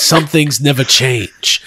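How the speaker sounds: slow, low, gruff Vin Diesel; lightly voiced tough guy, slow and low; deep slow action-hero line; Vin Diesel impression. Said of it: "Cut to Vin Diesel".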